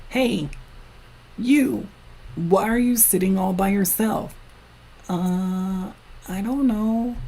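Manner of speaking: put-on high childlike voices; kid voices. Two kids meeting on the playground, high childlike voices. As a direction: play two small kids chatting.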